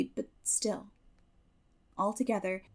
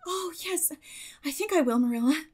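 optimistic; 6 semitones higher than usual. A narrator's reading. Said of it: "returned Anne optimistically".

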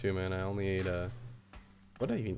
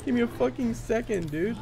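angry yell; 11 semitones higher than usual. Real, not acted. Gamer still yelling at the game, fury easing. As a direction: keep shouting but starting to break into laughter.

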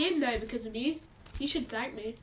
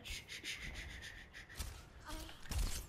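soft unvoiced shushing; 5 semitones higher, 13 dB quieter than usual. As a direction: hush them softly. Hushing the sleeping enemy.

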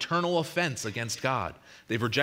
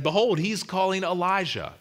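higher, louder voice of a bystander; retold exclamation; 9 semitones higher, 5 dB louder than usual. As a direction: call it out as an onlooker would. Bystanders' startled cry in retold scene.

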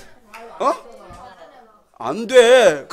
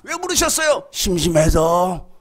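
put-on child's lazy answer; 4 semitones lower, 4 dB louder, slower than usual. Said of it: "효원아".

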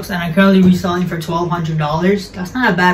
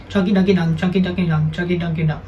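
quick, run-together repeats that tail off softer; fast tongue twister; 3 dB quieter, faster than usual. Shown as a demonstration. Host tries saying the shoe name ten times fast, rapid tongue twister. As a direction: rattle it off repeatedly. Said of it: "Say that ten times fast".

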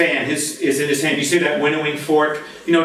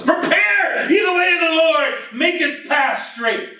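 prophet's scream; 12 semitones higher than usual. Retold or imitated. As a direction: shout it like a wild man in the desert. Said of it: "he screams at the top of his lungs".

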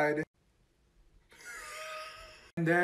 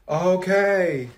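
ordinary delivery

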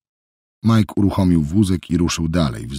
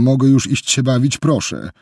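higher, pleading "mogę już iść się bawić"; pleading child; 7 semitones higher, 3 dB louder than usual. A narrator's reading. Boy begging Jessica to let him go play, pleading. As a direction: beg like a child who wants out.

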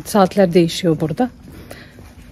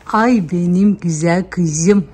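slow, tender pet talk; tender cooing; 2 semitones lower, slower than usual. Real, not acted. To the dog in her arms, slow tender cooing. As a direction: coo at her lovingly.

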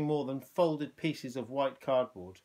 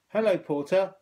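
put-on young girl; 6 semitones higher, 7 dB louder than usual. A narrator's reading. Girl greets porter.

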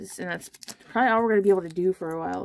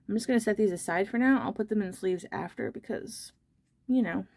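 out of breath. Real, not acted. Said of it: "Sorry if I seem a little bit out of breath".

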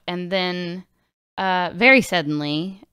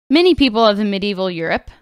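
normal talking voice

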